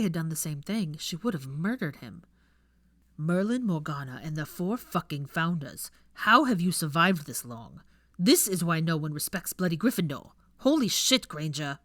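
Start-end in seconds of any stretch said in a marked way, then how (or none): 3.2-11.8 exasperated rant. Acted. Exasperated ranting.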